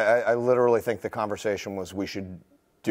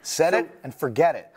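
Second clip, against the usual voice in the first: louder, higher pitchman voice; infomercial voice; 6 semitones higher, 4 dB louder than usual. Pretend. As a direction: pitch it like a late-night ad. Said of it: "Not to sound like an infomercial".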